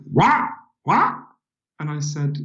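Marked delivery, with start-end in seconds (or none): 0.1-1.1 high, baffled American "What? What?"; puzzled diner waitress echoing back. Retold or imitated. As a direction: play the confused waitress, pitch way up. Waitress can't understand.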